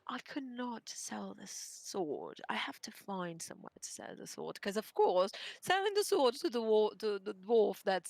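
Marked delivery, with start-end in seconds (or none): 0.1-4.6 whispered. Acted.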